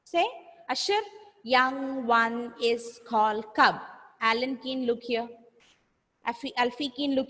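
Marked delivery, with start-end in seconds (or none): 1.4-3.8 slow, evenly spaced teacher modelling; slow repeat-after-me. Shown as a demonstration. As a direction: say it word by word for pupils. Model sentence for pupils to repeat.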